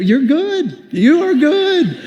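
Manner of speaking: high, slow mock-impressed praise; drawn-out grudging compliment; mock admiration. Preacher to the crowd, mock-admiring the man who scammed him.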